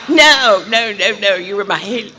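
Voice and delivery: high, loud no no no; protesting she was the halo; insistent shout. Retold or imitated. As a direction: shout her down with joy.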